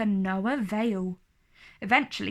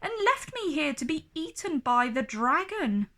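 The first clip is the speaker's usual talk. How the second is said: crying out; 5 semitones higher, faster than usual. Acted. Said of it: "cried Prudence".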